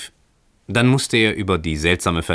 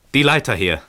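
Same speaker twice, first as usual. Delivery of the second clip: higher, mildly raised command; changed voice; 7 semitones higher, 4 dB louder than usual. A narrator's reading. Stranger demanding a ladder from below, changed, higher voice. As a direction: call for it in an altered voice. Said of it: "mit veränderter Stimme".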